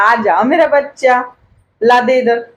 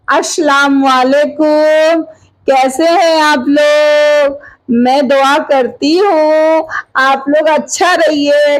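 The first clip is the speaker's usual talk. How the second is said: slow, higher sing-song greeting; speaking for baby; 4 semitones higher, slower than usual. Pretend. Grandmother greeting viewers on baby's behalf, slow sing-song. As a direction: prompt a baby word by word, vowels stretched. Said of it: "कह दो hello".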